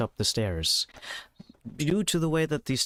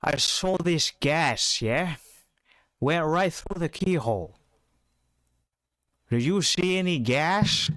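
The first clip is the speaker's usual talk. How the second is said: high muffled voice behind a door; muffled through door; 6 semitones higher than usual. Acted. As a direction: call through a closed door. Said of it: "Through a muffled voice on the other side".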